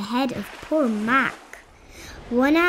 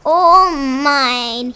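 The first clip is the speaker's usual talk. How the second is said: loud proud cry; shouted; 3 semitones higher, 10 dB louder than usual. A narrator's reading. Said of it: "Yertle cried".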